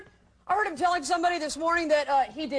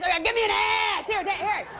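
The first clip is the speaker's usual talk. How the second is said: lightly voiced brash Sally; 3 semitones higher than usual. Sally taunting the men.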